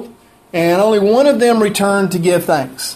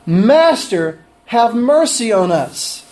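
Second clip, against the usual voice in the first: right plea; slower than usual. Shown as a demonstration. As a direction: plead for mercy slowly and sincerely. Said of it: "But they really cried correctly".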